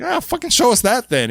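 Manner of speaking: high-pitched fed-up demand; put-on viewer's gripe; mock exasperation. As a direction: toss up the opening in playful frustration. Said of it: "It's like".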